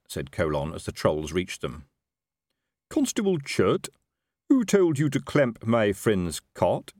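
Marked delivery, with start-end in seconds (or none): 2.9-6.9 demanding. A narrator's reading. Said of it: "he demanded".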